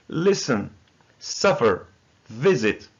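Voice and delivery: LIS-ten, SUF-fer, VIS-it, each falling; teacher's word list, listen, suffer, visit stressed on the first syllable. Shown as a demonstration. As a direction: say listen, suffer, visit one by one, weight up front. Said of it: "the first syllable is stressed".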